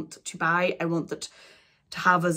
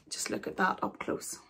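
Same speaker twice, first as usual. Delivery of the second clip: hushed; 8 dB quieter than usual. Real, not acted. Gazing at the painting.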